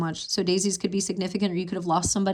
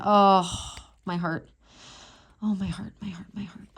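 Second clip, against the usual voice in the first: heartbroken. Real, not acted. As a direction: let the words die away in sorrow. Moved by card about death.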